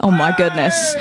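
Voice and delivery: posh British exclamation; British accent. Acted. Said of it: "why was that British?".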